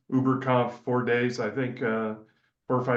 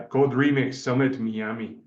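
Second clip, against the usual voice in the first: put-on light Cuban accent on Miami. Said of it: "you gotta say it in a Cuban accent".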